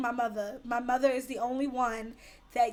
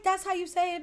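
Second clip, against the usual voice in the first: higher-pitched friend's retort; imitated protest, pitched up; friend insisting; 5 semitones higher than usual. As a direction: mimic her insisting. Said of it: "And she's like".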